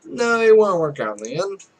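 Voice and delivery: a darker retake of the line. Shown as a demonstration. Retaking the heroine's line after calling it too bright, darker. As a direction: say it again with a darker end. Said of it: "Let's darken that".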